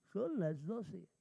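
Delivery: slow, drawn-out mock reply from a clueless buddy; naive friend. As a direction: imitate a pal innocently stretching out the answer. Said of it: "Y mi cuate".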